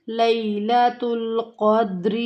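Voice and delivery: لیلۃ said as لئی; not لے, glide it as لئی; correct لیلۃ. Shown as a demonstration. Teacher repeats لیلۃ correctly for students. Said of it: "لے کی آواز نہیں آنی چاہیے".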